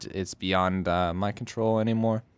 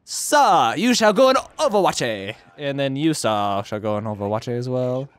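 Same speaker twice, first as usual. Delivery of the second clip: mock grand commander. Mock-grand orders to soldiers.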